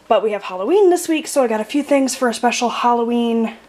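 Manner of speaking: breathless after carrying groceries; talking out of breath. Real, not acted. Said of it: "Sorry, I'm out of breath".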